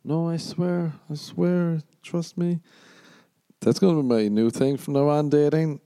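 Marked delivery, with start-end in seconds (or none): 0.0-2.6 high, pleading no no I swear; hammed-up deluded dater pleading; mock pleading dater. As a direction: beg them to trust you, voice pitched way up. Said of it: "And you're like".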